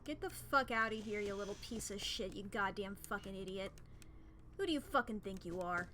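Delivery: put-on old-timey New England insult voice; 1920s New England tough. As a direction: spit insults like a 1920s Yankee. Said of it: "possessed by the soul of, like, a nineteen twenties New England type".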